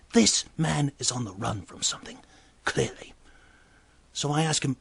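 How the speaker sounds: ordinary talk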